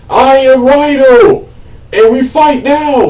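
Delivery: slow, high, exaggerated Russian-accented villain boast; mock Russian accent. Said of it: "A horrible Russian, um, accent".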